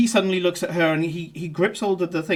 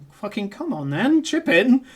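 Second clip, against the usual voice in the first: mock challenge; 3 semitones higher than usual. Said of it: "looking at you as if to say".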